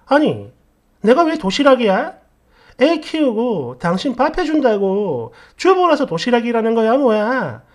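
acted wife arguing back; indignant demand. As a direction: confront your husband and demand an explanation. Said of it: "이렇게 따졌더니".

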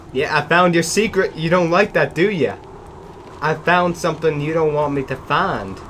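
playful gloating at the unseen creature; taunting. Pretend. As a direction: tease the monster like you've beaten it. Taunting the game's monster.

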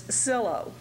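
cilo said as SILL-oh; pronunciation demo. Shown as a demonstration. Teacher giving the second word part to students, clearly pronounced cilo. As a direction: say cilo in two parts, SILL-oh. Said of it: "there is a difference in pronunciation".

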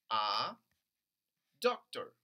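doctor, doc said loudly; stress on doc. Shown as a demonstration. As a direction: punch doc in doctor for the class. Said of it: "Sería aquí en doc".

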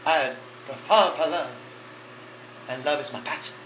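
loud, sassy diva address; drag diva Monica. Acted. Drag diva Monica declaring love to fans, sassy. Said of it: "I'm Monica Sinclair Kennedy".

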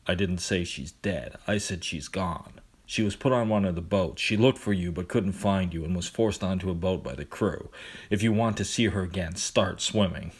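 flat and patient; monotone voice. Acted. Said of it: "his usual monotone voice".

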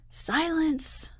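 high, sharp indignant cry; a master quelling a rowdy class, indignant. A narrator's reading. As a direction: slam the order down on the class. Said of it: "continued the master indignantly".

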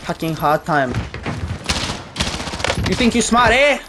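lightly put-on broken-English taunt; mocking the hacker. Gamer mocks the enemy hacker in mild broken-English voice.

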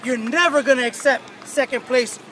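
rally the team, rising fire; building pep talk. Real, not acted. Coach building pregame speech.

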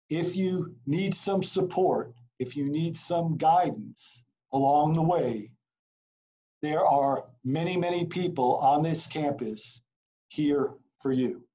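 talking out of breath; running out of breath while speaking. Real, not acted. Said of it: "I think I'm out of breath".

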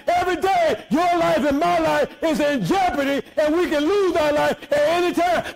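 shouted preacher cadence; fiery pulpit delivery; preaching at full force. Acted. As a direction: drive it home to the congregation. Preaching about loss and jeopardy.

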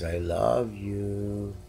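slow, soft imitation of the cat's "I love you"; imitating the cat. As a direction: drawl it like the cat meowing it. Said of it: "when he says".

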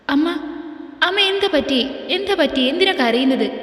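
alarmed questions to his crying mother; anxious. Acted. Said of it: "ആകുലതയോടെ ചോദിച്ചു".

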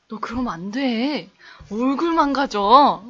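slow, lightly voiced boss; a hint of the CEO scolding slowly; imitating the CEO. Mimicking the CEO warning her, slow and mild. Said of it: "막 이런 식으로 얘기를".

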